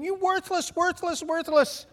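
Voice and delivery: high, drawn-out exasperated yell; mock scolding. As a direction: scold the drill, stretching each word. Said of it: "I'm saying".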